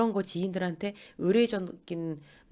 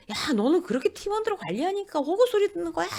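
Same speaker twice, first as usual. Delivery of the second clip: high-pitched scolding, only a little louder; mock angry yelling; 11 semitones higher, 3 dB louder than usual. Worn-out manager yells at a same-year colleague, mock angry. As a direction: act out an irritated outburst at a peer. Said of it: "이러면서 막 소리를 질렀어요".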